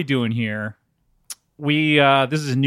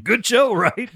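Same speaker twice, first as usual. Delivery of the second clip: mock self-satisfied; 9 semitones higher, slower than usual. The speaker seeks praise after bad show.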